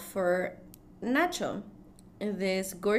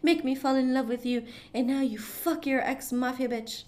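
distraught; 3 semitones higher, faster than usual. Retold or imitated. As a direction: imitate a betrayed lover, building in intensity. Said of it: "she's distraught".

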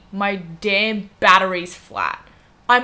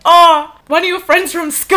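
giggling through the confession; sheepish laughing reply; 9 semitones higher, 9 dB louder than usual. Real, not acted. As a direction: laugh it out, embarrassed. Confessing date is brother's friend.

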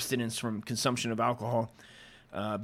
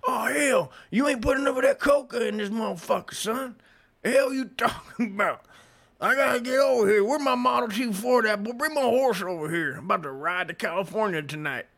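Southern gentleman voice; 9 semitones higher, 5 dB louder than usual. Retold or imitated. Southern gentleman yelling for more coca and his horse, hammed-up Southern holler. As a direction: bellow like a rowdy old Southern gent. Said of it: "they were white Southern gentlemen that did".

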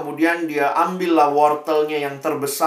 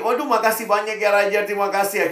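higher, bright thankful farmer voice; a farmer overjoyed at the king's gift, pitched higher; gleeful thanks; 5 semitones higher than usual. Acted. Petani gembira berterima kasih. (petani kegirangan, suara lebih tinggi)

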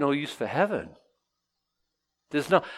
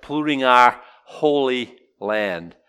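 disdainful; 4 dB louder, slower than usual. Retold or imitated. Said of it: "What they're saying is".

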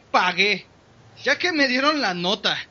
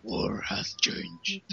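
slow raspy whisper through a cigar; cigar in mouth; 2 semitones lower, 10 dB quieter, much slower than usual. Pretend. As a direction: whisper it slowly like a grizzled soldier with a cigar. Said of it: "Con el cigarro en la boca".

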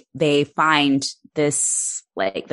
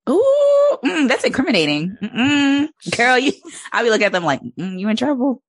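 gossipy excited juror; 8 semitones higher than usual. Pretend. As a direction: relish every juicy detail. Imagined nosy juror gossiping.

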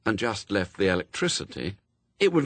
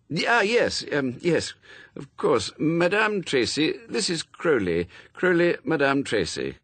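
higher, hesitant fussy introductions; lightly flustered, pitched up; flustered polite gentleman; 6 semitones higher than usual. A narrator's reading. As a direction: stumble politely into making introductions. Flustered Aziraphale makes introductions.

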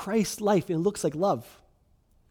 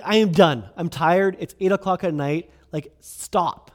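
retold fed-up yell; 5 dB louder than usual. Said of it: "all I did was I'm just like".

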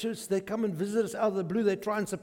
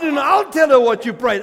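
laughing; 5 semitones higher, 13 dB louder than usual. Real, not acted. Teasing friend at lunch, laughing.

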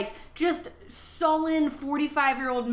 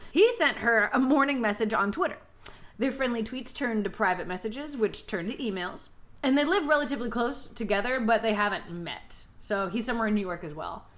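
measured, deliberate storyteller delivery; story recap narration; 2 semitones lower than usual. A narrator's reading. Host recapping the book for co-hosts, measured narration. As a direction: recount the plot, lingering on key phrases. Retells the book's plot.

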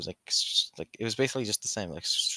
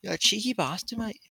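mock insult; 11 semitones higher than usual. Mock insult in play fight.

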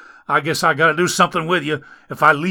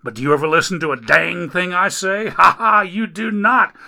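higher, louder, fast grumbling at the Lord; griping complaint; 7 semitones higher, 6 dB louder than usual. Acted. Man hauling Dagon upstairs complains to God, griping loudly. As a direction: gripe up the stairs at heaven. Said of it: "with every step the man griped".

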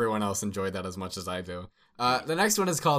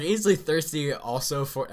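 loud, high, baffled requote; raised voice, on the edge of laughter; amused mock quote; 5 semitones higher, 5 dB louder than usual. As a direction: repeat the silly line in amused disbelief. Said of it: "I was like".

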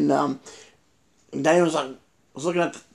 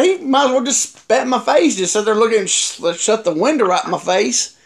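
retold indignation; 3 semitones higher than usual. Man complaining about the shut window, mild retold indignation. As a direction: replay the grievance with a touch of outrage. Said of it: "I was so mad".

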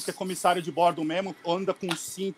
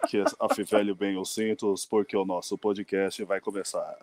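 airport announcement; 6 semitones lower, 3 dB louder than usual. Pretend. Podcast opened as flight announcement.

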